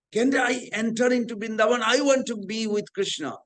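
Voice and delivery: mildly acted longing entreaty; acted plea. Disciple begs guru in story.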